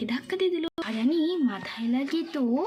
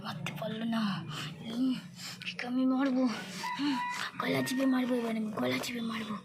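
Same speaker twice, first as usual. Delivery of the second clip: scheming witch Bindi. Acted. Witch vowing to strangle Rani, slow menacing mutter.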